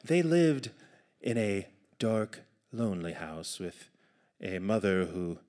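measured once-upon-a-time delivery; fairy tale narration. A narrator's reading. Narrator sets up the tale for the audience, measured storytelling.

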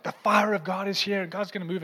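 hyped-up imitation of a preacher; imitated preacher proclamation. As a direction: proclaim it like an eager preacher on stage. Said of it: "Connor gets up there and he's like".

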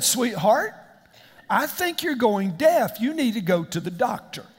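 measured, overly patient husband; mock calm voice. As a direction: act out a wonderfully calm pastor voice. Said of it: "in the most wonderful, calm voice".

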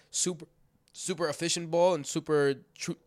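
talking through hiccups; words broken by hiccups. Real, not acted. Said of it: "all of a sudden I got the hiccups".

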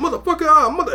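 high mock cussing-out; high, heated imitation of yelling; retold yelling. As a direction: rip into him like a sergeant. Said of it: "I'm just yelling".

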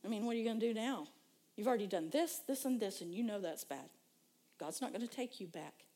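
taunting voice. Retold or imitated. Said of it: "a voice would come and say".

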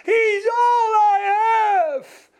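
high, loud, tearful cry; imitating a woman crying out in grief. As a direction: wail it out slowly through sobs. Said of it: "En toen begon ze te huilen".

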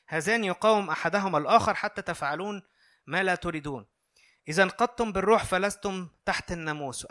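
measured, solemn reading of scripture; a lightly formal Bible reading. Acted. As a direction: read the verses out to the congregation. Reads Galatians 5 aloud.

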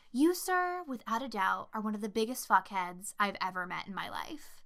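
deadpan, matter-of-fact quoted insult. Retold or imitated. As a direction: deliver it evenly, as simple fact. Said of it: "very matter-of-factly".

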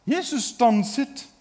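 ordinary delivery

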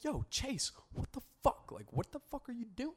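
imitating the girlfriend screaming at the neighbor; angry confrontation. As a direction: call him out from the yard.

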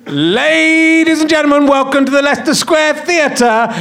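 big, slow showman announcement; announcer voice. Acted. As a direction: announce him like a compere. Guest does announcer intro.

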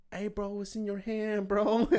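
high, slow mock yell; imitated screaming. Housemate yelling at the frantic neighbor, mock shout. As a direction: call it out loud and drawn out. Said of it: "People screaming".

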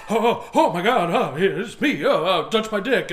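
Robin Williams impression. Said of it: "all the other things he used to do".

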